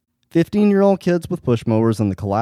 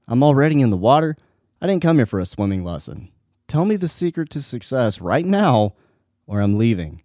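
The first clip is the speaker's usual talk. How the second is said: quick, pushy, a touch of a rising temper; impatient; 3 semitones higher than usual. Retold or imitated. Young man to the guru, losing patience, mildly impatient. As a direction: demand it, fed up with waiting. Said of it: "he says with impatience".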